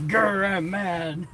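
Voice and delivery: slow playful growl, imitating the angry one; slow mock growl. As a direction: drag out a teasing pretend growl. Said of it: "say you're mad".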